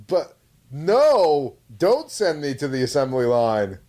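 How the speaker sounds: high, pleading mock robot girl. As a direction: beg not to be scrapped, hammed up. Robot pleading in retold trailer.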